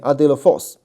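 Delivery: "adelphos" stressed on its final "phos"; stress at the back. Shown as a demonstration. Teacher pointing out the accent position, final stress on "adelphos". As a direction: put the weight at the end of "adelphos". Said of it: "这个重音在后面".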